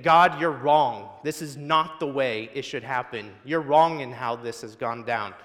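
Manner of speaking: mock angry outburst against God, loudest on the first words; angry shout. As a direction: hurl it at heaven in protest. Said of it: "shouting out in anger, saying".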